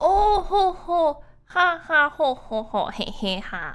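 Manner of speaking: very slow, high, put-on gnome chuckle. Doing a gnome laugh for the listeners. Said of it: "That was my gnome laugh".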